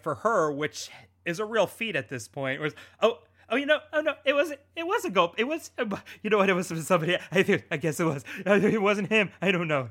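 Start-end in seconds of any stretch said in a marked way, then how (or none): 3.0-9.9 flustered, higher, fumbling bad acting. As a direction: ham up a flustered lie. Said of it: "the worst acting of the entire night".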